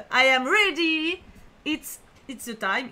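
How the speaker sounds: slow, drawn-out hammed-up English line; mock dramatic announcer. Streamer pretending to start an epic show, slow mock trailer voice. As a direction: ham it up like a trailer voice.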